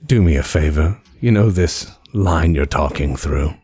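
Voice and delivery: polite, measured request; calm courtesy over the phone; lightly voiced spymaster. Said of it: "He goes".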